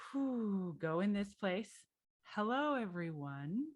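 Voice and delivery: exhale, then greet them without rushing; unhurried greeting. Retold or imitated. Consultant entering a Midwest bank meeting, unhurried. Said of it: "not talk as fast as I was used to".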